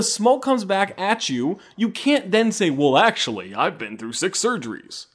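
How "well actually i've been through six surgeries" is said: a hint of mock-proper white voice. Host mocks a player's excuse after trash talk, white voice. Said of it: "you used the white voice".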